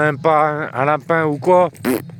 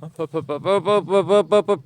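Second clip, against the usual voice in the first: coaxing the dog; 4 semitones higher than usual. Real, not acted.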